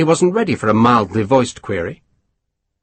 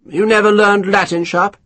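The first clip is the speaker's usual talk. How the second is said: lightly voiced self-satisfied officer; a hint of a smug English colonel; pompous colonel; 9 semitones higher than usual. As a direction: savour each word, pleased with yourself. Colonel condescending.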